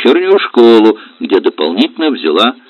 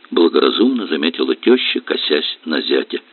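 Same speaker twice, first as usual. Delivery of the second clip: ordinary delivery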